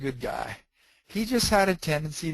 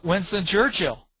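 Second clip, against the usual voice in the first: mildly raised, retold blurt; 3 semitones higher, 4 dB louder than usual. Man interrupting a training class, imitated blurting out. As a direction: imitate someone suddenly blurting out a name. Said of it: "this guy blurts out".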